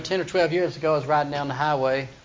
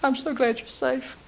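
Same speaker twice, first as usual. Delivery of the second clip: high, sugary gush; hammed-up Delilah gushing, higher pitched; mock adoring; 7 semitones higher, 3 dB quieter than usual. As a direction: fawn over him as if innocent. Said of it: "she says".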